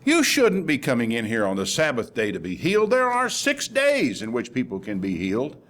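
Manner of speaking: mild mock scolding of a crowd; retold reprimand, lightly indignant. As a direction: act out an official telling people off. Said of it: "he scolded the people".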